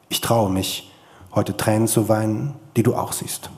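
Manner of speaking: measured, intimate reading of a letter; literary reading. Acted. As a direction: read it like a letter to your father. Author reads literary letter aloud. (getragene Lesung eines Briefes)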